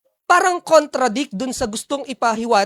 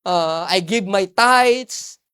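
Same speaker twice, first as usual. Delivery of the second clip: voicing the Pharisee; 3 semitones lower, slower than usual. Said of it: "Yun ang sabi ng Pharisee".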